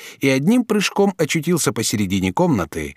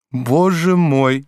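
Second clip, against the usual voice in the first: tender sympathy; 4 semitones higher, 4 dB louder, much slower than usual. A narrator's reading. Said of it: "с нежным участием".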